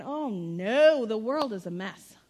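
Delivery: loud, drawn-out 'oh no' of fake worry; hammed-up fretting; mock dismay. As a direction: wail it in pretend alarm. Mock God fretting over world.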